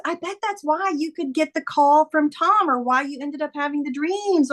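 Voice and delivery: lightly voiced daughter with a theory; daughter's theory. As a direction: pitch it up, piecing it together. Quoting daughter's excited theory.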